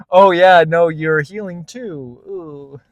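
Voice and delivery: loud, slow mock of a spiritual guy; hammed-up healer talk. Mocking a retreat man.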